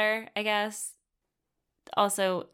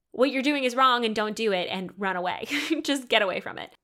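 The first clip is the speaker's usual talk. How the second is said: louder, higher mock warning from God; imagined urgent warning; 3 semitones higher, 4 dB louder than usual. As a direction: warn urgently, as if God were shouting down. Voices God's warning to her.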